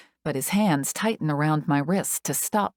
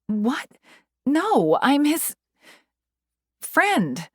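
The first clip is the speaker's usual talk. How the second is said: high, louder protest; urgent; 10 semitones higher, 3 dB louder, much slower than usual. A narrator's reading. Insisting to the medic she is his friend, urgent. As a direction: plead to be let along.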